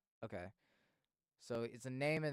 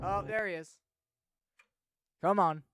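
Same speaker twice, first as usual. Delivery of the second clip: excited; 9 semitones higher, 13 dB louder than usual. Real, not acted. Excited as the character returns.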